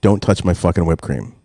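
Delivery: plain-spoken firm warning; retold warning. Parent warns the household about whipped cream, firm. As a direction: lay down the rule, evenly. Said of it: "I warn everybody".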